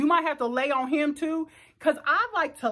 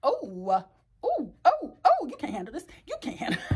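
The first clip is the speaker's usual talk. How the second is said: mock bedroom taunt. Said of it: "you be like".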